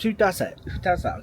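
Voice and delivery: shocked disbelief. Retold or imitated. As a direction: mimic the barrister's stunned disbelief. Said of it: "he was in shock".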